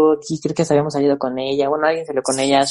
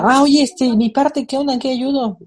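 higher, airy mock of a teammate who did nothing; mock clueless teammate; 9 semitones higher than usual. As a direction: play the slacker asking what's up, innocently. Mocking lazy teammate next morning.

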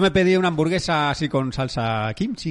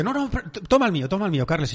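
higher, pressing mum offering her bowl; mother urging her son to take her ramen, mock insistent; mother insisting; 5 semitones higher, faster than usual. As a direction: imitate mum pushing the ramen on him. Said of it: "mi madre dice".

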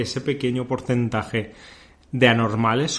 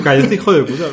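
louder mock snarl; 3 semitones higher, 7 dB louder, faster than usual. Echoing the insult louder.

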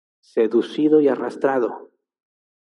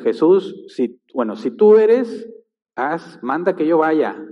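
voicing Peter; 4 semitones higher, 3 dB louder, slower than usual. Preacher acts out Peter's request.

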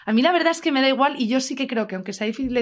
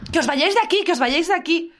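hysterical lady; 5 semitones higher than usual. Retold or imitated. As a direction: imitate the frantic lady ordering them off. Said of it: "una señora como loca".

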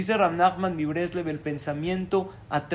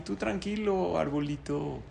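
reassuring; 4 dB quieter than usual. Acted. Jaim comforts the dying tree.

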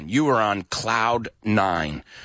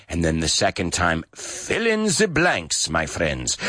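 put-on Dracula accent; 6 semitones lower than usual. Radio host jokingly tells listeners to fill in the blanks, mock Dracula accent. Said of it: "I decided to do a Dracula accent there".

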